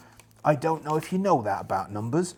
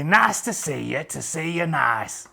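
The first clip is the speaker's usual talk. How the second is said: Bruce Forsyth catchphrase. Retold or imitated. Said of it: "He would say".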